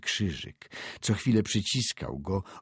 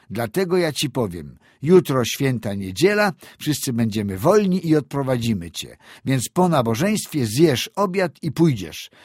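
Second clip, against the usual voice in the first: raised, higher-pitched, emphatic scolding; insistent telling-off with louder peaks; 4 semitones higher, 5 dB louder than usual. Acted. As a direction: lecture the lad, driving each point home. Old man scolds lad into leaving.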